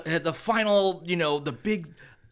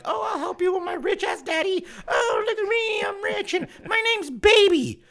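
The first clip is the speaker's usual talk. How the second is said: mock a spoiled rich daddy's girl, way up high; shrill-free hammed-up valley girl taunt; 14 semitones higher than usual. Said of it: "this chick is like".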